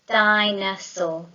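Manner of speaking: slow, syllable by syllable: di-no-saur; clapped-out syllables. Shown as a demonstration. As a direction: clap out each beat slowly. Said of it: "clapping out the word".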